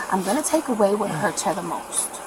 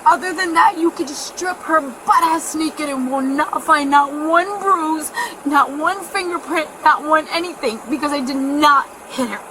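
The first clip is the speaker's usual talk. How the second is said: emphatic denial; 4 semitones higher than usual. Real, not acted. Insists to police on innocence.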